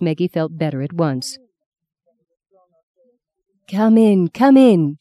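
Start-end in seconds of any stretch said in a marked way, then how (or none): 3.7-4.3 put-on a friendly Australian accent, come in; welcoming in broad Australian. Anne greets Maggie at the door, Australian accent. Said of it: "she said in a strong Australian accent". 4.3-5.0 put-on repeated come in, higher and louder, Australian accent. Anne calls Maggie inside, louder Australian accent. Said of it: "she said in a strong Australian accent".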